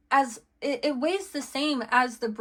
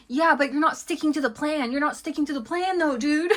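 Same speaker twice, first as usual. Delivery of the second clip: higher-pitched imitation of critics, breaking into amusement; mock nagging objection; 4 semitones higher than usual. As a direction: lightly mimic people calling someone out. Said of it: "why it's coming out like that".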